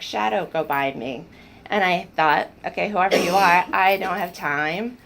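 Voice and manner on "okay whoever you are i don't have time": louder, impatient dismissal; waving off an intruder while busy; a retold, louder brush-off of an unseen visitor; frustrated brush-off. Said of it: "so I was very frustrated".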